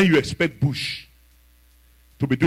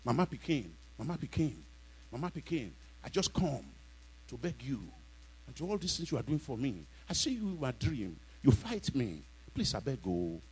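much softer, mock begging whimper; pleading to witch; 14 dB quieter than usual. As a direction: beg meekly like a frightened follower. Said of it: "what are you begging them for?".

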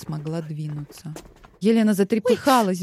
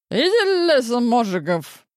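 angry shout; 5 semitones higher, 4 dB louder than usual. Acted. Wife pushes husband away.

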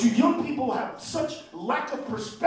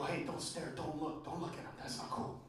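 hushed parental scolding; 9 semitones lower, 19 dB quieter than usual. Retold or imitated. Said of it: "they go".

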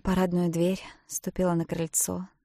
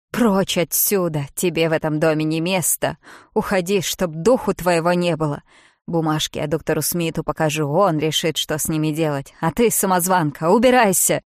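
furious shouting; 7 dB louder than usual. Acted. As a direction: drive her out of the house. Bridget drives her out. (яростно кричит, выгоняя из дома)

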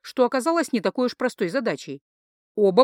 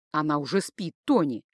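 soothing; 5 semitones lower than usual. Acted. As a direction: settle your drunk friend gently. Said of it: "попытался утихомирить друга".

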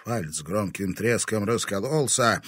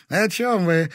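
put-on higher, irritated girl's question; displeased; 10 semitones higher, 7 dB louder, slower than usual. A narrator's reading. Dasha answers the sheriff with displeasure. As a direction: snap back annoyed. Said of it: "недовольно спросила Даша".

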